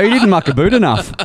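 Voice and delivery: put-on joking Canadian accent; mock Canadian accent. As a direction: play up a Canadian "aboot". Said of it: "I would call that Canadian".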